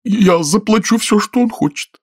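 high, quick woman's voice; eager lady hurrying to pay; quick eager reply. A narrator's reading. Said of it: "быстро отозвалась благоразумная женщина".

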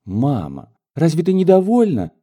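can't believe mother isn't pleased; astonished question. Acted. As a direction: daughter startled by her mother's hesitation, astonished. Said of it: "с изумлением спросила дочь".

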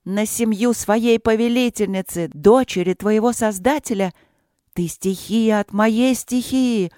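furious yell. Acted. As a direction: berate it in fury. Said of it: "в бешенстве орала королева".

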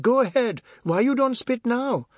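high, loud dare; high-pitched angry challenge; indignant boy. A narrator's reading. Boy taunts the man, aggrieved.

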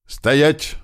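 acted yell, pitched high; yelled command. Bandit challenging the approaching men, high-pitched acted yell. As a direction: order them to halt, voice jumping up. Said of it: "заорал один из них".

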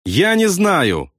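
mild nervy howl, voice rising; nervous wail. A narrator's reading. Rattled pilot answers about bailing out, nervous wail. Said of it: "нервозно взвыл Кроха Сэмпсон".

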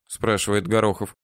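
ordinary delivery

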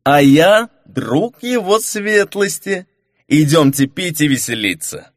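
sway through it tipsy; drunken invitation. Acted. Drunk companion invites the informant to drink, slurring.

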